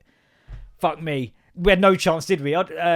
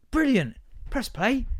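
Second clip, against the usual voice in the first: mock cheery teacher; 9 semitones higher, slower than usual. Mock teacher addressing class.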